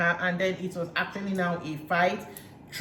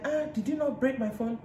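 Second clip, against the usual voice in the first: mock indignant retort; 6 semitones higher than usual. Recapper mimics the comeback about a broken phone, indignant. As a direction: imitate an accusing comeback in a raised voice pitch.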